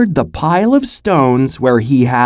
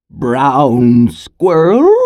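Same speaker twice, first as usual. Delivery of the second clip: grandmother; much slower than usual. Acted. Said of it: "his grandmother had said".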